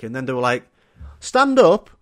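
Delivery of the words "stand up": confused question. Retold or imitated. Lad mishearing band name.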